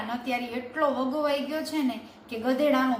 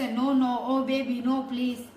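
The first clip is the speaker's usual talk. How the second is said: mock pleading; much slower than usual. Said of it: "એમ કહેશે".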